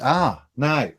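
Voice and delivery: ordinary talk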